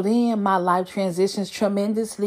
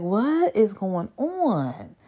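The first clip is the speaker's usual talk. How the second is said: slow baffled; 3 semitones higher, 3 dB quieter, much slower than usual. Retold or imitated. Retells her reaction to profile.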